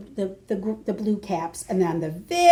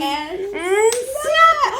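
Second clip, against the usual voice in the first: much higher sharp cry of snap; sudden snap; 11 semitones higher than usual. Acted. The alligator snapping up a monkey, sharp cry.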